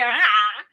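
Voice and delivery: loud, helpless "ah"; big shrugged-off "ah"; shrugging "ah". Acted. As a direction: throw out a loud verbal shrug. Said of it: "just a shrug of, like".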